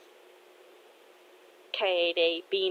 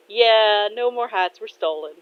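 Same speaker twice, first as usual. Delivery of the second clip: amused confirmation; 3 semitones higher, 6 dB louder than usual. Acted. Dad answering his daughter about the hats, amused. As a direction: confirm "no more hats were stolen" as a statement. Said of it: "Kotetsu laughs and says".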